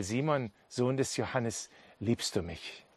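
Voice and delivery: soft, sinking, tender question; gentle questioning. Acted. Jesus asks Peter a second time, gently and softly. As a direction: ask softly and earnestly.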